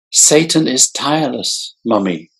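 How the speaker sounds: put-on high childlike voice, sighing. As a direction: sigh it like a weary little boy. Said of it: "he sighed".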